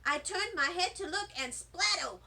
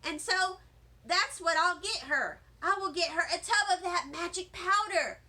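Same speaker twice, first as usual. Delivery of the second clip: excited; 3 semitones higher, 4 dB louder than usual. Acted. Herb excited about gift idea.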